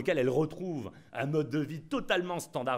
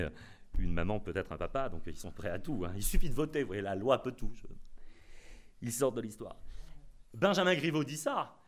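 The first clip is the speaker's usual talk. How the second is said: normal talking voice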